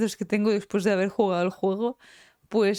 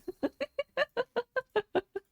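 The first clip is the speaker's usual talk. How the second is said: much higher, softer falling laugh; high giggle; 5 dB quieter than usual. Real, not acted. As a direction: laugh with glee. Risa tras el bingo. (risita aguda y alegre)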